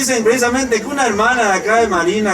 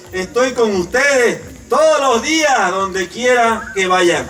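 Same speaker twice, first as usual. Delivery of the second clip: voice of the Lord; 3 semitones higher than usual. Acted. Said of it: "como dice en Josué uno nueve". (Dios habla a su pueblo, solemne y lento)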